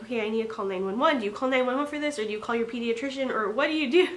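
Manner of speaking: fast, rising panic, words tumbling out; replaying a frantic moment, hurried and rising; frantic inner thoughts. Retelling frantic thoughts in emergency.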